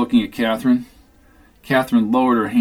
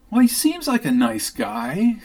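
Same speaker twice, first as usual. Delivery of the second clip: giggling; 9 semitones higher than usual. Acted. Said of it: "said Catherine, giggling".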